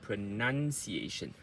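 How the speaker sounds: pronunciation run together, NUN stressed and longer; normal speed. Shown as a demonstration. Coach finishing the drill, pronunciation at normal speed. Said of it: "increase the speed into the normal speed".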